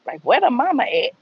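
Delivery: high-pitched mimicking of accusers; mock blaming. Speaker mimics viewers blaming the mother, in high mock accusation. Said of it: "there y'all go blaming the black woman".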